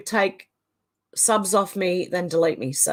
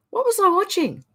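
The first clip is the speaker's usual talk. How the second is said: laughing; 12 semitones higher than usual. Real, not acted. Laughing, high squeal.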